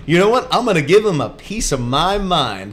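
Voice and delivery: hammed-up fuming radio caller; indignant caller. Imitating angry listener calling radio show, mock indignation. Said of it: "Who's sitting there so mad".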